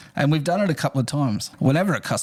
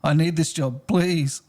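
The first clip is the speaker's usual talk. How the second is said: fake pleading; 3 semitones higher than usual. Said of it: "I started acting really sad".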